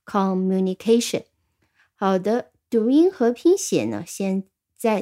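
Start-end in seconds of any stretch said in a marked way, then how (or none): 0.1-1.2 "communication" with lighter beat on MU, main one on CA; secondary stress on MU. Shown as a demonstration. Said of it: "有个次重音是在mu上面的".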